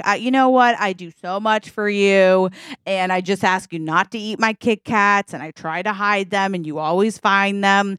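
mildly aggrieved, sulky complaint; sulking husband justifying himself; pouting. Acted. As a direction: complain with a touch of a pout. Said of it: "he starts pouting".

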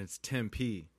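slow "Tempe", drawn out as TEM-PEE; corrected pronunciation. Shown as a demonstration. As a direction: give both syllables of "Tempe" full length. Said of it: "when people say Tempe".

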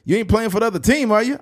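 high, quick suspicious-grandpa question; prying in a put-on high grandfather voice; grandpa impression. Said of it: "He's like".

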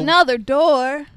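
slow, drawn-out interjection; teasing echo. Pretend. Listener interrupting the recap, drawn-out teasing echo. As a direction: stretch it out to tease the storyteller.

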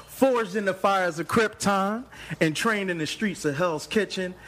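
big, high-pitched hype announcer; hype announcer intro. Acted. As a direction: announce it like a superhero trailer.

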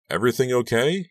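pretending casual. A narrator's reading. Worried dad checks on daughter, mock casual. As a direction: hide the worry under a light tone. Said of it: "pretending to be casual".

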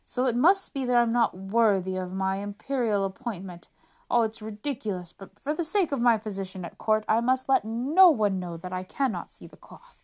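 fretting about his post; worried officer. Acted. Officer's inner panic voiced.

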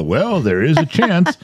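slow, drawn-out noncommittal doctor; mock doctor dodging the question; vague doctor. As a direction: hedge it like a cagey doctor. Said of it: "They always go".

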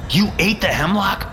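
rising disbelief. Acted. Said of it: "No use yelling at a dead man".

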